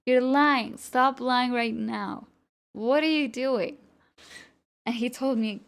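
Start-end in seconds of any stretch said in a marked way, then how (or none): 0.0-3.8 getting mad. Retold or imitated. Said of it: "I was getting mad at him".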